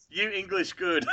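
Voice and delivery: slow, high, laughing broken English; mock foreign speaker mangling English. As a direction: tease her with pidgin English, laughing. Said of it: "I like the accent on it".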